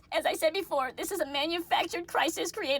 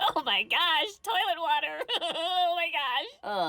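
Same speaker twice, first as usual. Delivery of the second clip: laughing breakdown; 3 semitones lower, slower than usual. Pretend. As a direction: fake sobs collapsing into laughter. Fake crying breaks into laughter.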